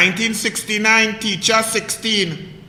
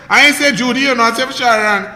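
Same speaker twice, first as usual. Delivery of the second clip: mocking taunt; 4 semitones higher, 4 dB louder, faster than usual. Real, not acted. Mocking Rowley over his women.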